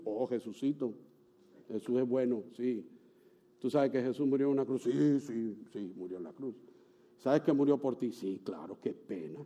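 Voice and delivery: indifferent believer. Retold or imitated. Mocking indifferent believer's replies.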